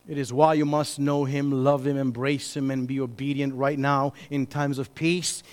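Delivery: low, softened, earnest urging; solemn appeal. Real, not acted. Preacher urging listeners to obey now, solemn and hushed. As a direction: drop low and soft to urge them.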